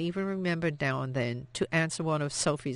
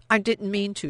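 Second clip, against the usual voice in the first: dry throat; 5 semitones higher, 4 dB louder than usual. A narrator's reading. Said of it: "her throat dry".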